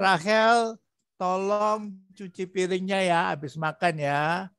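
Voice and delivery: slow, tender mother asking her daughter; gentle request. Shown as a demonstration. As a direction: ease into the request kindly. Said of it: "Itu dari lemah lembut seperti itu".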